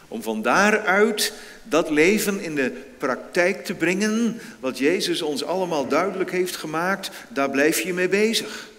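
rising preacher's fervour. Acted. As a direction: drive the point home to the congregation. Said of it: "daar blijf je mee bezig natuurlijk".

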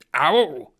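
sharp loud yelp of pain; howl of pain. Acted. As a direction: cry out in sudden pain. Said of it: "heulte er".

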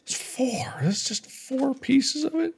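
high, crying wail of despair; mock wailing. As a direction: wail it like a heartbroken child. Despairing over missing sugar cane.

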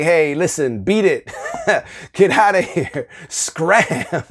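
mock annoyed brush-off through laughter; laughing brush-off. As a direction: shoo them away, half laughing. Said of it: "take on this attitude and say".

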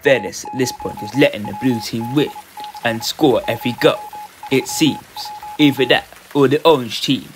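measured robot-style commentary; robotic voice. Acted. Streamer narrating match to viewers, robotic voice. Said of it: "This robotic voice".

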